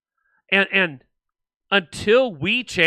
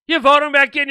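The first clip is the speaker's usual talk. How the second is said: exasperated mockery; 8 semitones higher, 5 dB louder than usual. Mocking voters who re-elect politicians.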